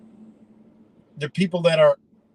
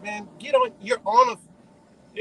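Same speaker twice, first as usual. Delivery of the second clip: high, slow drawn-out mock brush-off, much higher; mocking dismissal; slower than usual. Kids telling the boat guy to get lost, high and slow mocking. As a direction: wave him off in a high, stretched voice.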